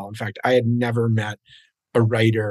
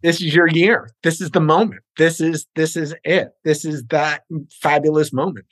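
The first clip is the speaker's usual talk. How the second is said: excited; 3 semitones higher than usual. Real, not acted. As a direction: pump them up with hype. Hyping up the host.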